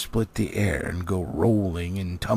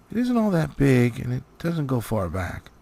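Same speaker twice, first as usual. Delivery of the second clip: put-on young dwarves; 4 semitones higher, 4 dB louder than usual. Young dwarves reassure the wizard.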